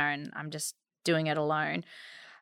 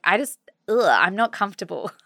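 laughing discomfort; 3 semitones higher, faster than usual. Retold or imitated.

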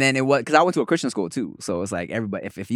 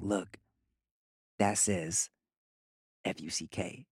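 put-on hushed kid whisper; secretive playground whisper; 4 semitones lower, 13 dB quieter, slower than usual. Classmate whispering at slide.

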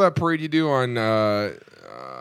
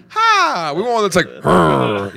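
mock menacing float; much slower than usual. Mocking intimidating float voices.

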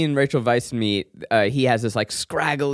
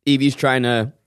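talking through a mouthful of food; words around a bite; mouth full. Real, not acted. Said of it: "I've got couscous in my mouth".

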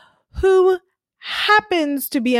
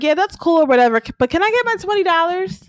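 brushing it off; 6 semitones higher, faster than usual. Retold or imitated. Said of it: "Klaus is like".

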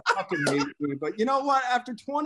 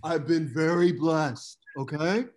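Sam Tripoli impression. Host boasting to the guys about Bitcoin, a brash cocky Sam voice that builds up. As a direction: brag like a cocky stock picker who gets more fired up. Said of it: "That was the best fucking Sam Tripoli impression".

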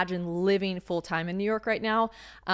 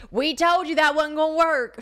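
higher, louder smug parent voice; mock told-you-so parents; 8 semitones higher, 6 dB louder than usual. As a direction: play the gloating parents, hammed up. Imagined parents saying I-told-you-so.

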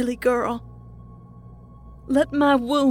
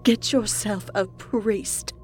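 very slow, drawn-out disdain; zealot's slow sneer; 3 semitones higher, much slower than usual. A narrator's reading. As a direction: dismiss them with lofty scorn. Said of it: "Maureen sneered".

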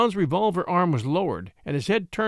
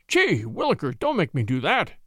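plain reading voice

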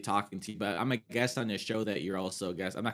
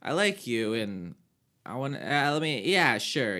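higher, louder eager yes; eager agreeing; 4 semitones higher, 4 dB louder, slower than usual. Retold or imitated. Replying eagerly to the psychic's invitation. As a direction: jump at the offer. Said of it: "I'm like".

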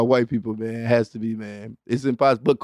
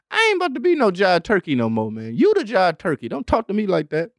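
blaxploitation talk; 4 semitones higher than usual. Retold or imitated. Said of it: "seeing they talk like".

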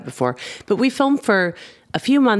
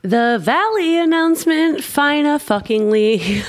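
high, thrilled big reveal; excited announcement; 12 semitones higher, 3 dB louder than usual. Real, not acted. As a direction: burst out with the exciting news.

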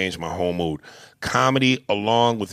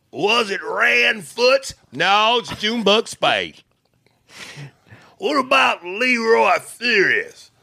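mob leader voice; 12 semitones higher, slower than usual. Acted. Daddy questions the mob.

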